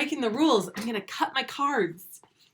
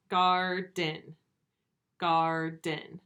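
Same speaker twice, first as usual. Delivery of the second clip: each Garden split into "gar", pause, "den"; two takes of Garden, each in two separate beats; break between syllables; 2 semitones lower, 3 dB louder, much slower than usual. Shown as a demonstration. Teacher showing the break is like this, split. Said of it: "the break in the syllables".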